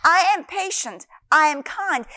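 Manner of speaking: steady, assured affirmation; calm thankful confession; confident declaration. Shown as a demonstration. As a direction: say it as already true. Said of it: "moving in thanksgiving that I am".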